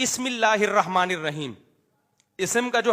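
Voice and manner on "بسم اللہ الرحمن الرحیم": بسم said "bi-ism", the hamza audible; wrongly sounded hamza. Shown as a demonstration. Likening the error to a misread bismillah, sounded hamza. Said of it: "یہ ایسا ہی ہے جیسے".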